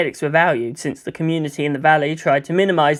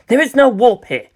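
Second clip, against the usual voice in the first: stern self-reminder; 7 semitones higher, 5 dB louder than usual. Acted. Shinji scolds himself.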